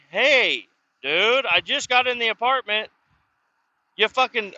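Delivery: upset phone rant. Retold or imitated. Calling the cousin about the wrecked apartment, heated and high. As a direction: let the anger spill into the phone call.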